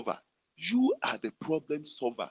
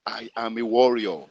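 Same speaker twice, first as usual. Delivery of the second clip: call to repeat; 2 semitones lower, 6 dB louder than usual. Shown as a demonstration. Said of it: "repeat after me".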